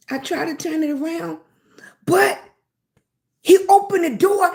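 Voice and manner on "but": whispered but. Real, not acted. Suspense before crash.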